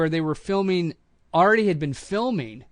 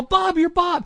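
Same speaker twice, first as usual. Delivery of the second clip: high, loud delighted recognition; excited greeting; 5 dB louder, slower than usual. Retold or imitated. Crew members greeting the new actor, excited and loud. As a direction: call out his name like a star arrived.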